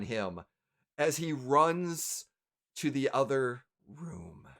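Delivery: slow, suspenseful narration with long pauses; game master scene setting. A narrator's reading. Game master revealing the Harper pin to players, suspenseful narration. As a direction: draw out each detail toward the reveal.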